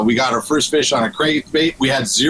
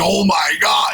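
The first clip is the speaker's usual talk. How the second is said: imitating an excited exclamation, drawn out; big, enthusiastic mock shout; 3 semitones higher than usual. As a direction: quote it with hammed-up amazement. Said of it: "with a lot of enthusiasm".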